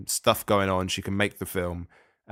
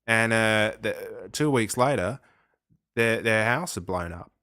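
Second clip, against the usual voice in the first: put-on Australian accent. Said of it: "you were indulging your Australian accent there".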